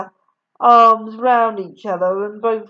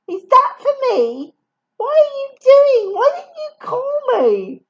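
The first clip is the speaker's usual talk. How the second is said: high, loud outraged questions; indignant sister; 6 dB louder than usual. Acted. Helen confronting Katie over the hidden phone call, high and loud. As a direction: demand it angrily.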